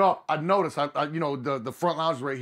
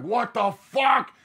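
slow, drawn-out louder what the fuck; stunned; 7 semitones higher, 4 dB louder, much slower than usual. Retold or imitated. Waking on the bus floor, drawn-out stunned cry. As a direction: stretch it out in disbelief. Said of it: "I'm just like".

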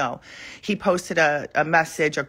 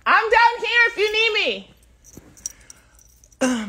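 very high, louder sing-song line; sing-song call; 6 dB louder than usual. Real, not acted. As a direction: float it up high like a tune.

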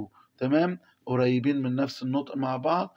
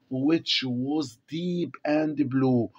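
slow reading aloud; much slower than usual. Shown as a demonstration. Teacher reading the text to the class, very slowly. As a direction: read each English word very slowly for the class.

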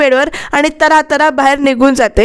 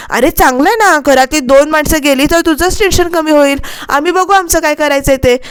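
acted tirade, slightly raised voice; unrestrained rant; 3 semitones higher than usual. Seema to husband about leaving for her parents' home, ranting. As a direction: rattle on as if the mouth has run loose. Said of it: "तोंड सुटल्यासारखं बोलतेय".

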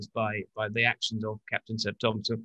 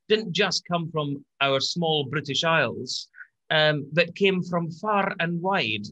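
put-on a slow, half-hearted lowlands Scottish accent; a self-confessed terrible Scottish lowlands accent, drawn out slowly; 3 semitones higher, slower than usual. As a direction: drift lightly into a bad lowland Scottish accent. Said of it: "terrible attempt at a, at a sort of a, a lowlands accent, Scottish accent".

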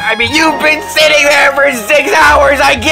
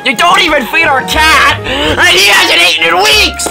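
high, raised-voice complaint; indignant accusation; 8 semitones higher, 3 dB louder than usual. Acted. Minion accuses boss of starving the cat, indignant. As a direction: build to an outraged cry.

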